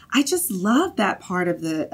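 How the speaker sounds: slow, thick Southern drawl; Southern accent. Retold or imitated. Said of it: "my mom impersonation is, like, a very thick Southern accent".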